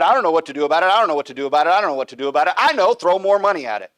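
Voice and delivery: loud mocking helplessness; mock helpless whine. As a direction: ham up a clueless shrug. Mocking politicians dodging blame.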